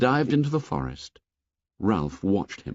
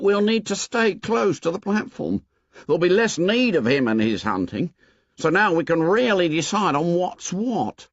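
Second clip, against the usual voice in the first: put-on higher boy's voice, earnest and insistent; a lightly raised Piggy, pressing his point; 9 semitones higher than usual. A narrator's reading. Piggy addressing the assembly, insistent and higher.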